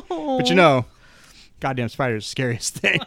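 mock Southern villain; Kenneth Branagh. Branagh's villain in Wild Wild West, hammed-up Southern accent. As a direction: lay on a bad Southern accent. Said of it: "Kenneth Branagh from Wild Wild West".

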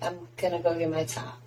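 quick line in a show-off Northern accent. Shown as a demonstration. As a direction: put on a light Northern US accent. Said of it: "I do my, like, Northern one".

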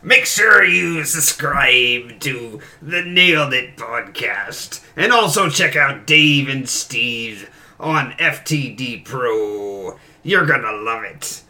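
pirate voice. Acted. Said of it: "I do talk in a pirate voice".

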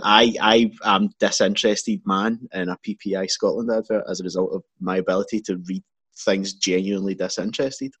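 bored monotone; disinterested. Retold or imitated. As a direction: read it like you don't care. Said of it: "but more disinterested".

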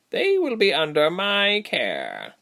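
high, slow insistence; firm female creature. A narrator's reading. Female creature claiming the captives, firm. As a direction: lay down the decision, slow and emphatic. Creature overrules tabby leader.

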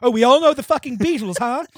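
sarcastic. Acted. Sarcastic Harry aside.

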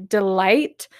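"delight" set apart with deliberate emphasis; stress on delight. Real, not acted. Host telling listeners which word matters, emphasis on "delight". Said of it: "I wanted to emphasize that word".

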